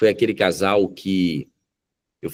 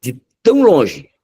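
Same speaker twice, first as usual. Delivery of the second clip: drawn-out cry, high and loud; retold plea to God, loud and slow; indignant protest; 8 semitones higher, 8 dB louder, slower than usual. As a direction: stretch the words and push them up in protest.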